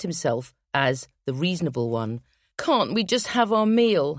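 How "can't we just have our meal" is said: slow, higher desperate moan. Acted. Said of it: "he moans desperately".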